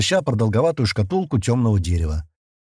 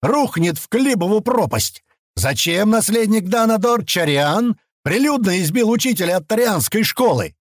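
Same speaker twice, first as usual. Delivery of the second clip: higher, pushed angry ranting; ranting rage; 9 semitones higher than usual. Acted. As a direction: berate him over the beating. Governor ranting at boy.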